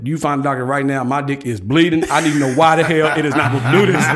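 retold demand.

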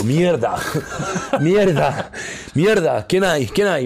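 high, loud startled cursing; acted-out panicked outburst; retold frightened alarm. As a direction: cry out as if jolted awake by an intruder. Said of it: "asustado, asustado".

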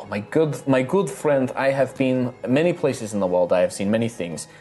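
bubbly innkeeper charming her guests; cheerful halfling innkeeper. Acted. GM voices innkeeper Rosalina.

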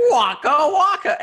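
high, slow Fozzie Bear voice; hammy Muppet bear catchphrase. Retold or imitated.

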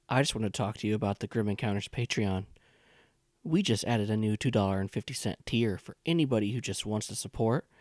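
upbeat promo read. Acted. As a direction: pitch the Patreon tiers cheerfully. Host reads Patreon ad.

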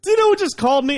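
loud, very high burst of amazement; hammed-up excitement, voice shooting up; imitated excited dad. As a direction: blurt it out like a thrilled father. Thrilled father telling of celebrity call.

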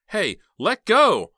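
high, loud, slow cry to let go; yelled protest. Acted. Heather protests as her uncle yanks her from the car. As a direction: shout in protest as he tugs.

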